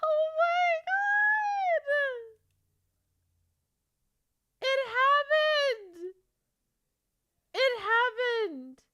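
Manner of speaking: high, drawn-out happy wail; tearful joy. Real, not acted. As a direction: squeal it slowly, overcome with joy. Tearful joy at book approval.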